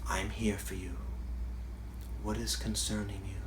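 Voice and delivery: very soft, hushed reassurance; softly soothing an emotion that has come up; soft gentle master voice. Retold or imitated. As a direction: murmur it like comforting a frightened friend. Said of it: "beautiful, soft way of speaking".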